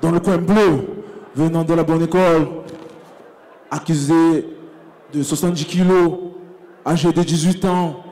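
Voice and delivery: big arena announcer voice; boxing ring announcer. Acted. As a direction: call it out to the whole hall. Ring announcer introduces fighters.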